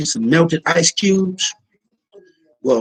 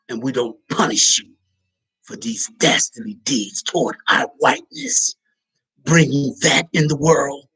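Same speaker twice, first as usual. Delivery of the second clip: mock pompous authority; 3 semitones lower than usual. White authority voiced pompously.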